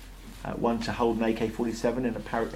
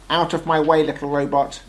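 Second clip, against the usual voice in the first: loud, higher-pitched battle tank; growling tank; 4 semitones higher, 9 dB louder than usual. A narrator's reading. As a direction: order him aside as a growling war machine. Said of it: "growled the tank".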